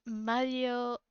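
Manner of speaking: Mario said the French way, a light French accent; a light try at French on Mario. Shown as a demonstration. Asked to say Mario in a French accent, a light French accent. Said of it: "with a French accent".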